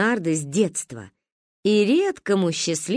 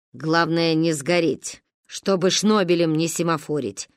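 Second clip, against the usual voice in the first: instructive; 3 semitones lower than usual. Acted. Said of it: "сказала назидательно".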